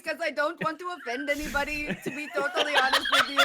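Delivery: breaking up laughing mid-sentence. Real, not acted. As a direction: laugh your way through the excuse. Laughing while explaining.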